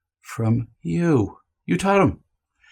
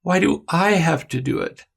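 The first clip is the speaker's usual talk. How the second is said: put-on whiny child; 4 semitones higher than usual. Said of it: "Other examples of whining".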